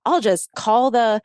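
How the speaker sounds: half-yelled, fed-up ultimatum; retold yelling. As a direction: imitate an exasperated threat. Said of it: "he's yelling at her saying".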